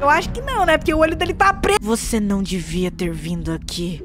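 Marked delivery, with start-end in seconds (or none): 1.8-4.0 voz bem grave e sombria; voz de mendigo sinistro. Acted. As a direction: um velho ameaçador avisando baixinho. (voz grave e sinistra de velho)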